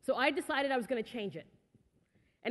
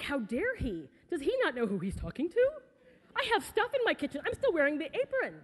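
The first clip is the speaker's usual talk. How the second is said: rising, hammed-up indignation, climbing higher; mock indignant outrage; 4 semitones higher than usual. Speaker to the audience, replaying her outrage at a date's verdict: huffy, pitch climbing higher. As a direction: play up being insulted over her own cooking. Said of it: "And I got angry".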